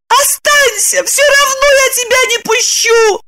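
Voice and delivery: high pleading female voice; cling and beg; desperate woman. A narrator's reading. Lipochka clinging to Roman's suitcases.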